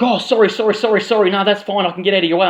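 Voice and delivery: mock apologetic stranger. Addict letting him out of the seat, lightly mimicked apology.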